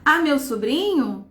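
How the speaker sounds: "A meu sobrinho?" said slowly as an incredulous question; read as a question. Shown as a demonstration. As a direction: ask it slowly, in disbelief. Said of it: "Interrogação".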